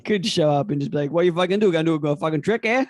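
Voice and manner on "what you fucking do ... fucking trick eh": gruff Boston tough guy; Boston accent. Retold or imitated. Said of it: "That's a Boston accent".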